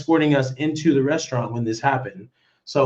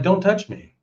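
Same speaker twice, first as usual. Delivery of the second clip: retold firm warning; 6 semitones higher than usual. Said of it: "I'm like".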